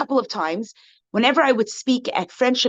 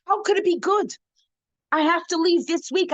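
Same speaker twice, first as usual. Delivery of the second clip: distraught friend; 7 semitones higher than usual. Retold or imitated. Friend upset at being evicted.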